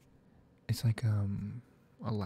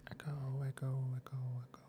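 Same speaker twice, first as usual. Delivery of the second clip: each echo softer, dying away; echo fading; 5 dB quieter, much faster than usual. Shown as a demonstration. Showing how an echo sounds, fading out softly. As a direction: let the word fade like a canyon echo. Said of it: "how would you get an echo?".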